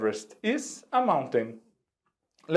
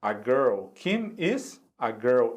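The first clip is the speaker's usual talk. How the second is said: slow model sentence; 3 semitones lower, slower than usual. Shown as a demonstration. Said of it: "Então nós vamos dizer assim".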